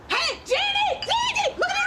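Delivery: high, loud call across the room; calling out loudly. Acted. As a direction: shout her friend's name to get her attention. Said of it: "Would madam prefer a bullhorn?".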